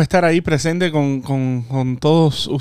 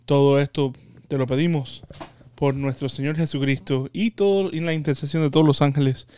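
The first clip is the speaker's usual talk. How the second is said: prayer. Real, not acted. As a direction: recite the prayer devoutly. Leads a prayer.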